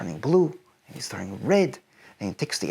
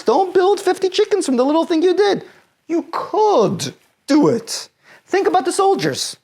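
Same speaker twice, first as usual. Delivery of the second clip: loud urging; 13 semitones higher, 6 dB louder than usual. Real, not acted. Urging the teen on.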